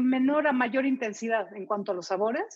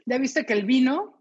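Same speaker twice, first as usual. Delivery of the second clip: mouth full. Real, not acted. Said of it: "Vamos a hablar con la boca llena".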